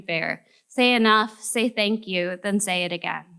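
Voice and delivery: measured poem recital, each phrase set apart and falling at the end; solemn spoken-word delivery; poetry reading. Acted. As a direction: read the poem out deliberately, stretching the line endings. Poet reads own poem aloud.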